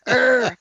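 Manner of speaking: short throaty mock growl. Picturing herself in the commercial, mock growling. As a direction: growl like the creature on TV. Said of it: "it would have been me like".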